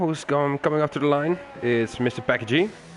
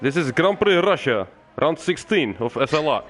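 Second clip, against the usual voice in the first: put-on Russian accent; 3 semitones higher than usual. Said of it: "You're gonna do the Russian accent again".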